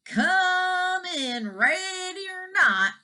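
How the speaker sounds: loud, high hide-and-seek call; yelling. A narrator's reading. Farmer hunting the dragon, loud high calling. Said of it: "yelling all the while".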